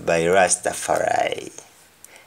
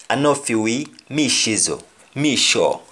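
Jamaican patois. Shown as a demonstration. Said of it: "the example we say".

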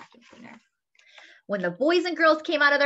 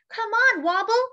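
calling out; 12 semitones higher, 5 dB louder than usual. Acted. Witch calling her cat.

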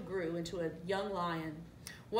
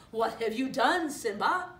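louder, higher accusing question; 4 semitones higher, 6 dB louder than usual. A narrator's reading. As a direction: confront the cub with the blame. Scar accuses the cub.

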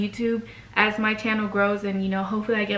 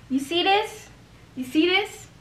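sassy show-off; 8 semitones higher than usual. Acted. Showing off, high far.

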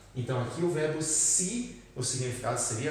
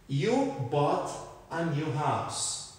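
slow model sentence; much slower than usual. Shown as a demonstration. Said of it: "essa palavrinha aqui".

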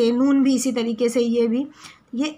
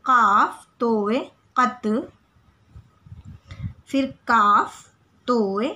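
slow letter drill; much slower than usual. Shown as a demonstration. Teacher drilling children on Urdu letters, slow clear recitation. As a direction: sound out each letter, then the joined syllable, with pauses between.

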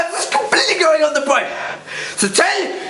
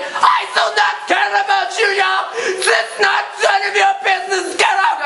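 angry retort; 5 semitones higher than usual. Retold or imitated. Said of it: "And everyone's like".

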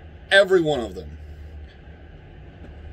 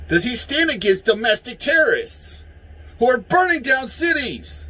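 heated, rising yell, higher pitched; 6 semitones higher than usual. Real, not acted. Angry ranter yelling about rioters. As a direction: yell it out in anger. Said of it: "sorry for my yelling".

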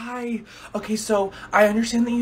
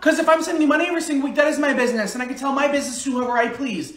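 defensive snap; 5 semitones higher than usual. Acted. Defending sending money to daughter.

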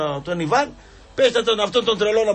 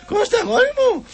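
high mock call; 4 dB louder than usual. Calling out in high voice.

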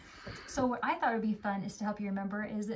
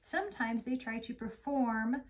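slow storybook narration; gentle read-aloud; story reading; slower than usual. Acted. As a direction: read it slowly to a young child. Reads story to child.

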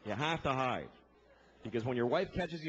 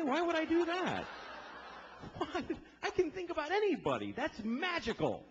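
incredulous retort; 12 semitones higher than usual. Acted. High incredulous reply to his wife's question. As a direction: scoff at the silly question.

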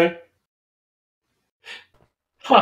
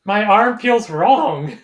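slow fake complaint; 4 dB louder, much slower than usual. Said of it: "Do it".

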